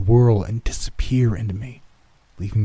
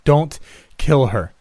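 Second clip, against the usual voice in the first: high, slow, emphatic begging; drawn-out urgent appeal; desperate plea; 7 semitones higher, 4 dB louder, slower than usual. A narrator's reading. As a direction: plead slowly with raised pitch. Will pleads for Laura's life.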